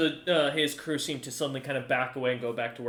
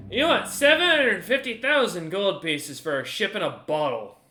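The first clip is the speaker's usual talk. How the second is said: higher, louder disbelief at the price; incredulous; 6 semitones higher, 6 dB louder than usual. Acted. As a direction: balk loudly at an outrageous sum.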